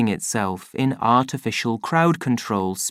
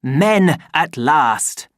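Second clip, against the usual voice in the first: cry; 3 semitones higher, 4 dB louder, much slower than usual. Acted. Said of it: "Helmholtz cried".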